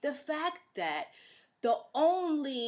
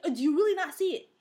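raised, louder, quick challenge; exasperated disbelief; 6 semitones higher, 5 dB louder, faster than usual. Retold or imitated. Host answering the commenters who deny racism, exasperated. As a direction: throw the question out high and fast.

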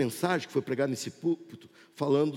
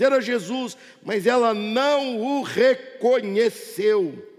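projected sermon, stretching key phrases slowly; emphatic pulpit voice; fervent preaching; 4 semitones higher, 4 dB louder, slower than usual. Real, not acted. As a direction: preach it with weight, drawing out the endings. Preaches to congregation at full force.

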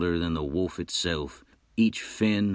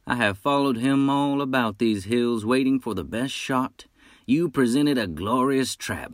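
higher, louder bold hunter; 5 semitones higher, 4 dB louder than usual. Acted. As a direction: call out like a proud hunter. Hunter speaks in character.

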